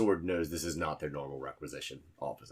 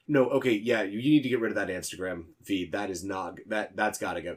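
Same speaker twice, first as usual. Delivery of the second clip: frazzled scolding; 3 semitones higher, 6 dB louder, faster than usual. Acted. The intern tells someone to delete a feed, loud and frazzled. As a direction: rush out the order, flustered.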